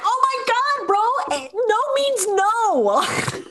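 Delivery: high, stretched-out exasperation; exasperated. Retold or imitated. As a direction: groan it at a pushy guy. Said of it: "You're like".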